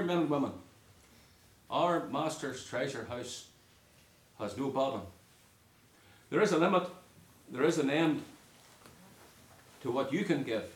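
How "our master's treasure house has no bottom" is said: Our master's treasure house has no bottom drawn out slowly; slow and deliberate. Shown as a demonstration. Preacher driving home the message to men and women, slow. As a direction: let each word land, unhurried. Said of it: "that's really the message here".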